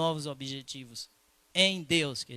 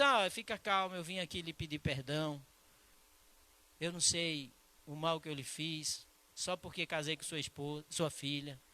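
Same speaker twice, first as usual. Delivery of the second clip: humble, gentle apology. Retold or imitated. Humble apology retold softly.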